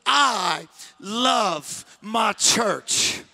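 drawn out with spirit; leading the crowd in a slow bold chant; slow spirited declaration. Shown as a demonstration. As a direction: proclaim it slowly with attitude. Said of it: "you should say it one more time".

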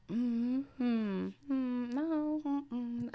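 mock deliberation in a high voice; puzzling it out. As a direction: mimic onlookers weighing it up. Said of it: "trying to figure it out".

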